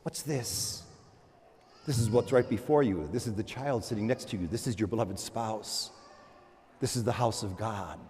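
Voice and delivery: soft, low, intimate words; quiet contemplative preaching; hushed reflection. Acted. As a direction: draw them into stillness.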